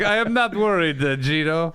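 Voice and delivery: high mock female voice; imitating the girlfriend. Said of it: "She's like".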